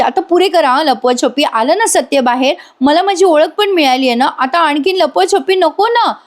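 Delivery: lightly acted annoyance at being kept in the dark; a touch of mock exasperation; fed up. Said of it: "वैतागते Sayali आता".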